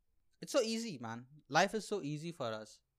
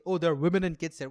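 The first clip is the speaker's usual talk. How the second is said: louder, fast, preachy; mock earnest pundit; 9 dB louder, faster than usual. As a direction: parrot a sanctimonious commentator. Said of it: "when they say".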